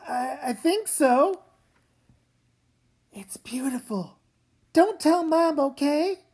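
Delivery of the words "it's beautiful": breathless whisper of wonder; soft whispered awe; awed whisper. Acted. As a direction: whisper it, amazed. Admiring the necklace in awe.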